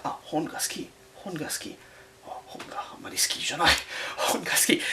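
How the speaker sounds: whispering hongaski over and over; quiet self-drill while shelving books; whispered practice. Retold or imitated. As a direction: mutter the phrase under your breath. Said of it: "I'd be putting on, like".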